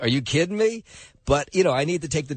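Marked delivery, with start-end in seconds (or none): 0.0-0.8 mock-indignant dog, pitched higher; dog's voice. Host voices his hot dog balking at a walk. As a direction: give the dog a put-upon, higher voice. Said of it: "the dog looks at me and is like".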